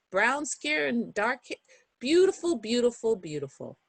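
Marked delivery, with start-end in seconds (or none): 2.0-3.8 bright burst of beautiful that fades to a murmur; excited then fading. Acted. Admiring the picture, fading out.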